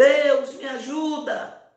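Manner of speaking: loud, high shout at full voice. Retelling a story of a man hanging in the dark: imitating a loud shout. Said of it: "ele gritou bem alto".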